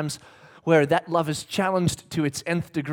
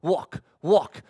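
mock toddler; 4 semitones lower, much slower than usual. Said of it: "all he wants to do is go".

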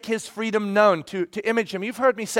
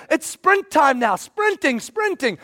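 high, slow urging call; 6 semitones higher, slower than usual. Retold or imitated. Pastor urging his walking kid to sprint, high and eager. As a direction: egg the kid on to run.

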